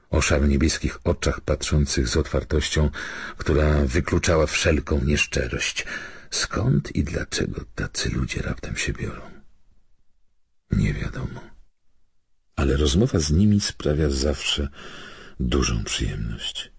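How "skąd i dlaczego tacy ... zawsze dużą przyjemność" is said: ordinary delivery, nothing marked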